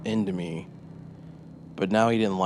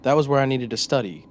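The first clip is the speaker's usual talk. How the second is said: higher, louder, eager confession; proud storyteller voice; 4 semitones higher, 4 dB louder than usual. Acted. Narrator-character boasts to interrogator.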